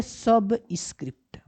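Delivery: slow, stretched सबस्क्रिप्ट; careful term reading. Shown as a demonstration. Teacher tells learners the option's name, slowly and carefully. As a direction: spread सबस्क्रिप्ट out clearly, ending on a fall.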